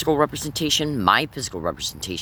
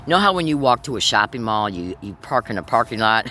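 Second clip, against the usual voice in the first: talking around a cigarette; cigarette in mouth. Real, not acted. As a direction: cigarette between the lips. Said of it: "let me light my cigarette here".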